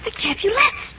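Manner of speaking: quietly feeding a classmate the missing words; helpful prompt. Acted. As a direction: slip the answer in under your breath. Prompts struggling pupil.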